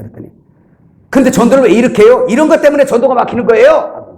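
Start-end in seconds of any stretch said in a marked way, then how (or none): 1.1-4.1 high, mildly raised scolding; retold angry yelling. Church couple scolding the preacher for his method, imitated angry yell. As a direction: imitate an irate objector's challenge. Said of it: "막 소리 지르더라고요".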